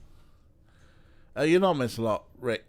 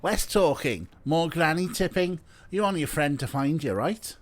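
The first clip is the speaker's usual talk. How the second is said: a hint of faked Scouse; bad Scouse accent; 5 semitones higher, 4 dB louder than usual. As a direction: press a pal in light bad Scouse. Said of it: "I'm doing a bad Scouse".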